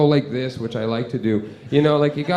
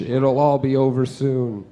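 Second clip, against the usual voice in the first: mock soothing; 3 semitones lower than usual. Mock soothing while smothering.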